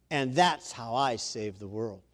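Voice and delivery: slow, low, understated hero line; lightly acted, measured low delivery; lightly voiced Jesus. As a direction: take it down low and unhurried, a touch of the saviour. Voicing Jesus addressing superheroes.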